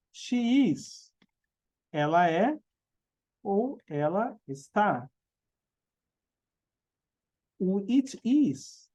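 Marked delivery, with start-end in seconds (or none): 0.1-1.1 English "She is" modelled a bit higher. Shown as a demonstration. Teacher to students, modelling "She is" in English. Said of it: "ou ele está". 7.6-8.9 "it is" drawn out slowly, each word clear; slow English it is. Shown as a demonstration. Teacher to students, slowly modelling "it is". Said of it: "que é o neutro".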